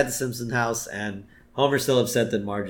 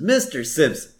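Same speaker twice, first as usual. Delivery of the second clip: higher, louder slick pitch; smarmy lawyer sales talk; Lionel Hutz's voice; 5 semitones higher, 4 dB louder than usual. Retold or imitated. Lionel Hutz pitching himself to Homer, slick and loud. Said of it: "So he says".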